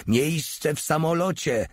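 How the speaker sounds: high-pitched mild call. A narrator's reading. Breathless officer demanding a plane seat, calling out. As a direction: call out urgently, pitch well up. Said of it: "zawołał".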